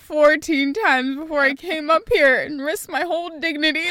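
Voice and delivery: loud, high mock outrage; hammed-up indignant student, shouting over the words; exasperated protest. Student protesting to the teacher after asking, hammed-up exasperation.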